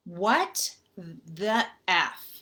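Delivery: slow, choked-up disbelief; upset whisper of disbelief; tearful disbelief. Retold or imitated. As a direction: let it drag out, near tears. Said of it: "I start crying".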